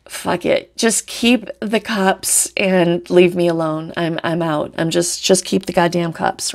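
weary shrug. Retold or imitated. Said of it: "he's just like".

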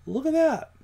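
high-pitched little exclamation; surprised discovery. Real, not acted. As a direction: voice leaps up in sudden surprise. Surprised by what code shows.

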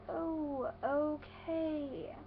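drawn-out, uneasy okay; dubious reaction. Acted. Reacting to ten-year-olds shopping at Wet Seal, dubious. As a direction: softly stretch out a doubtful okay. Reacting to girls in store, acted.

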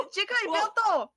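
high-pitched call through real laughter; laughing command. Real, not acted. Friend watching Jack's silly game pose, laughing command. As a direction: tell them off while cracking up.

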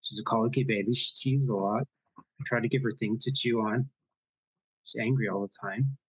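put-on light Irish nanny accent; a hint of a brogue as the nanny. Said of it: "You guys enjoy my terrible Irish accent?".

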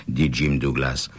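plain reading voice

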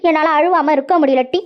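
acted weepy complaint; mildly sobbing self-pity; tearful lament. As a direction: bemoan your fate, close to tears. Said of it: "என்ன அழுதுகிட்டு இருக்கிறியா".

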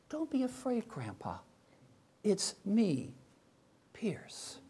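soft, fading to a whispered name; gentle reassurance. Retold or imitated. Toddler comforts grandpa, softly reassuring, name whispered.

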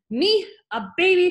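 high, loud indignant disbelief; outraged shout. A narrator's reading. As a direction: shriek it back, affronted. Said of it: "shouted the Trunchbull".

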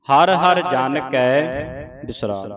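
measured Gurbani reading, phrase by phrase; slow, deliberate reading with drawn-out final vowels; scripture recitation. Shown as a demonstration. (ਠਹਿਰਾਅ ਨਾਲ ਗੁਰਬਾਣੀ ਸੰਥਿਆ ਪਾਠ)

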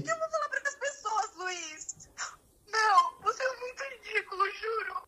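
hurt and close to sobbing; crying. Real, not acted. Girlfriend hurt by confession calling him ridiculous, tearful crying.

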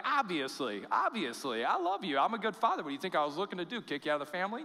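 a high, loud, fond father's reply; loving father. Pretend. God answering the returning sinner, a high loud fond father. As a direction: reassure the runaway as a delighted dad. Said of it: "He'd be like".

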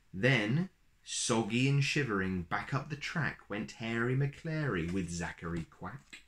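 put-on lilting read-aloud rhythm for a children's picture book; storybook reading. A narrator's reading. Uncle reading a rhyming book to little kids, lilting storyteller voice. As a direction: read it like a bedtime story, bouncy verse.

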